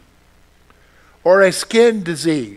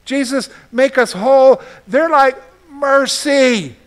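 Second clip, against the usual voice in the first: pleading cry; 7 semitones higher, 4 dB louder, slower than usual. Retold or imitated. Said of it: "They didn't even just say".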